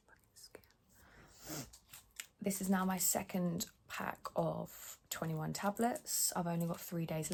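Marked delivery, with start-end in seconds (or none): 0.1-1.6 a hushed, slow curse under the breath; whispered curse. Real, not acted. Vlogger cursing her skin under her breath, whispered. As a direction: whisper it in annoyance, slowly.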